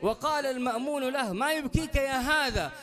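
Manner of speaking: quick, lively Arabic preaching narration; fast sermon storytelling. Acted. Preacher telling the court story to the congregation, fast and lively. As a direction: race through the tale like a preacher.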